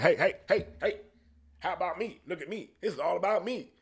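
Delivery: high-pitched mock self-promoter; pretentious attention-seeker. Podcaster imitating comics promoting themselves, pretentious and high. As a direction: pester for attention in a mocking high voice. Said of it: "It seems super pretentious to me".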